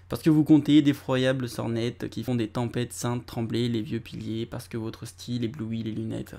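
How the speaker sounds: slow, measured recital of verse; poem reading. Acted. Reading a Victor Hugo poem to viewers, slow recital. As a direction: read the lines like a poem, unhurried.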